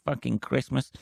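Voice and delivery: high-pitched parody of neighbourly chat; mock small talk. Eight years of neighbour chit-chat, high mock-friendly voice. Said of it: "a fucking conversation of going".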